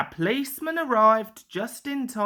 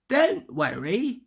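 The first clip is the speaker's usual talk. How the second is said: grand; 4 semitones higher than usual. A narrator's reading. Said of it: "he replied grandly".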